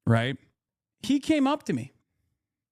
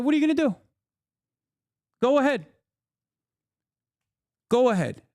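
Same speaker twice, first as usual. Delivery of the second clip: taunting dare; 9 semitones higher, faster than usual. Retold or imitated. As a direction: dare him to step closer. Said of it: "I said".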